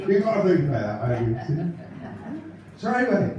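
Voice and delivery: lightly voiced chirpy northern comic telling gags; a light take on a cheery stand-up comic; Ken Goodwin impression. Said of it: "for Ken Goodwin, ladies and gentlemen".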